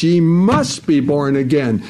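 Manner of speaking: firm stress on "must"; intense, emphatic. Retold or imitated. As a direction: press on "must" with urgent conviction. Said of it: "It is so intense".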